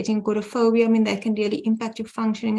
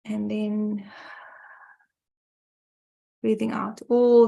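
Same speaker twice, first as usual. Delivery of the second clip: guided breathing; slower than usual. Shown as a demonstration. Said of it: "So I'll do it like this".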